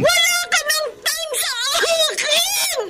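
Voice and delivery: slow shouted complaint; hurt shout. Acted. (masakit na sigaw)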